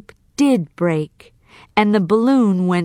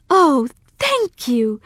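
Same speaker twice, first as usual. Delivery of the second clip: happily; 6 semitones higher than usual. Acted. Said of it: "cried Dorothy happily".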